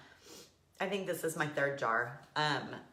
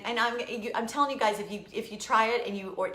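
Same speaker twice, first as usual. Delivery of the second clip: ordinary talk, nothing marked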